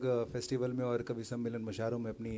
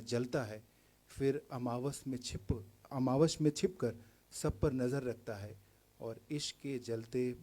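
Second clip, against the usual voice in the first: poetry recital; 4 dB louder than usual. Acted. Poet describing the envious moon to an audience, poetry recital. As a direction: recite it with pauses between phrases. Recites poem after aside.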